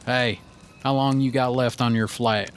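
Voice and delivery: lightly imitated Southern accent; a hint of cowboy Southern accent. Stranger chatting outside the airport, Southern accent. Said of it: "with a Southern accent".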